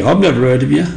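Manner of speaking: a touch of mock sarcasm; dry, lightly sneering dismissal; sarcastic. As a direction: shop owner brushing off the young carver, mildly sarcastic. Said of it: "he went sarcastically".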